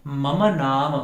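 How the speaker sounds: मम with both अ sounds, ममा; full mama. Shown as a demonstration. Teacher gives students the correct मम. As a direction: give मम its final अ. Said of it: "हमें क्या बोलना है?".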